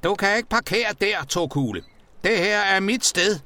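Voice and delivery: angry high-pitched shouting; vredt råb. A narrator's reading. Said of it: "råbte Tykke Tonni vredt". (råber vredt)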